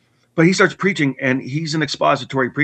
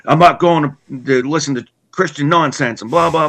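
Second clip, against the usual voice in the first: mock tantrum; 4 semitones higher, 5 dB louder than usual. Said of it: "I was in this big tantrum".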